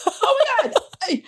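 high, slow "Oh my God"; mock horror. Real, not acted. Guest reacting to host's neuroses quip, high drawn-out gasp. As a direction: stretch it out, scandalised at herself. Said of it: "reacting to host joke".

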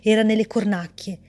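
measured, even storyteller reading; story narration. A narrator's reading. Author reading her story aloud, calm narration. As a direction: read the tale calmly to listeners.

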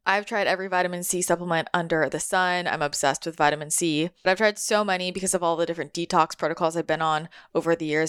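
steady, even sponsor read. Acted. Podcast host recommending a vitamin C supplement, ad read. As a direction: pitch a product to listeners, evenly.

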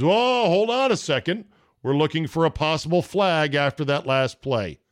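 sudden high excited referee announcement; replay official call. Retold or imitated. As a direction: mimic a ref stopping the game. Mimics replay stoppage call.

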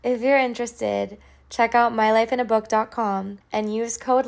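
bright, punchy sponsor read; upbeat ad read. Acted. Host reading a sponsor ad to listeners, upbeat and punchy. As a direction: sell it like a radio spot.

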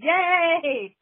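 high, loud cheer; thrilled yay to her son; excited yay. Real, not acted. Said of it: "I'm so excited".

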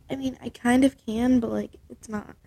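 talking with nose held shut; pinching nose. Real, not acted. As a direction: pinch your nose and speak. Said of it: "So just hold your nose and try to hum".

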